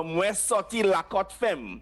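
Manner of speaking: slow patois sentence "Moi sorti Lakot femme"; teacher giving a patois example sentence. Shown as a demonstration. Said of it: "if you say in patois".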